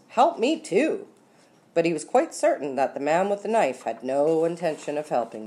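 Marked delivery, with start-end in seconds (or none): 0.1-1.1 high, raised-voice plea, lightly panicked; pleading thought. A narrator's reading. Ulysses silently begs for help too, high and pleading. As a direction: chime in with an urgent high plea. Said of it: "thought Ulysses".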